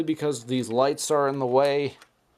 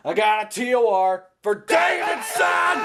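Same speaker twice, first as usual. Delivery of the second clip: excited exclaim; 7 semitones higher than usual. Retold or imitated. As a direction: blurt it out like big news. Excited recall of warning received.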